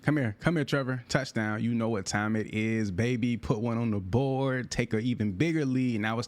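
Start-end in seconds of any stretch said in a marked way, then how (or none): 0.0-1.0 calling out. Real, not acted. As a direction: yell for the pass. Calls for the ball in play.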